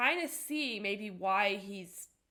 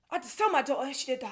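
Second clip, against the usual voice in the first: put-on young man's way of talking, higher; 4 semitones higher, 3 dB louder than usual. Retelling how a young man on TV talks: imitating a young man's way of talking. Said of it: "the way he's talking".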